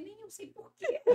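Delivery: mais alto e risonho, sem graça; resposta rindo. Retold or imitated. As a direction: ria confessando não saber. (resposta risonha e encabulada à avó)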